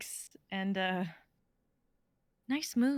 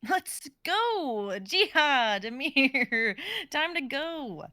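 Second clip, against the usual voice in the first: calling out; 4 semitones higher, 6 dB louder, much slower than usual. Acted. Calling friends to leave.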